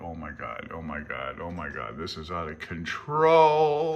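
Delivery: mock panic. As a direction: play at being overwhelmed by the chapter. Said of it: "Yeah, it's like".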